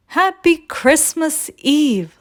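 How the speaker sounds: lightly voiced eager little sleigh; cheerful Little Red. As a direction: greet the morning brightly as the small sleigh. Little Red greets truck cheerfully.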